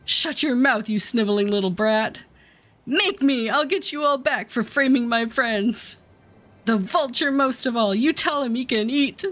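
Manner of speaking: lightly acted angry prisoner; a touch of defiant outrage; defiant captive. Voices defiant captive and captor.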